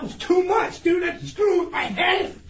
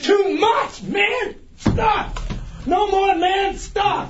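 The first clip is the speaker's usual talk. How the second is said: shouting in protest, higher; yelling; 4 semitones higher, much slower than usual. Real, not acted. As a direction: yell it out, begging them to stop. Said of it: "Stop yelling".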